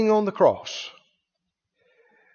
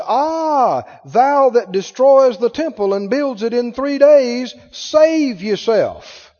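loud, higher jeer with a drawn-out ending; railing mockery; 4 semitones higher, 4 dB louder, slower than usual. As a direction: rail at him like a scornful passerby. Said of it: "railed on him".

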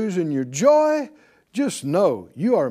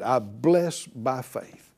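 slow led declaration; 6 semitones lower, 3 dB quieter, slower than usual. Shown as a demonstration. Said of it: "Say it out loud again".

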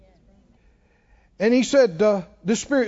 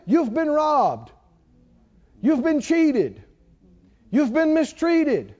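slow, higher insistent tempter; hammed-up spirit voice; 5 semitones higher, slower than usual. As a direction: drag each word out like a sly spirit. Spirit's voice, hollering.

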